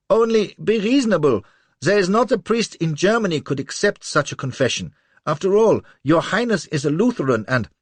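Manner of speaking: high, loud begging; pleading cry. A narrator's reading. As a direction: beg in a panic. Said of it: "cries the little chap".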